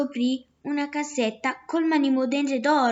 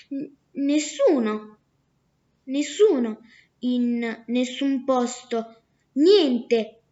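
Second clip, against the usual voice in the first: the clever daughter spells out her fake name slowly; sly girl's trick name; slower than usual.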